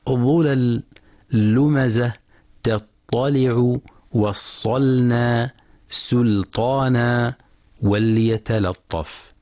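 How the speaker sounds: every L in "ظلل، لمزة، تطلع" kept light, slow examples; thin lam. Shown as a demonstration. Tajweed teacher giving examples of the agreed thin lam, light L. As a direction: say the L in "وصلنا، سلطانا" thin, even beside heavy letters. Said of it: "واتفق القراء على ترقيق كل لام".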